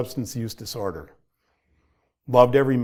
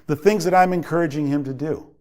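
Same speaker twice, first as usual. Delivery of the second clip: higher-pitched, exasperated dad reliving his anger; frustrated venting; 6 semitones higher than usual. Retold or imitated. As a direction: plead and scold in one rising-pitched rush of frustration. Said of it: "I was frustrated".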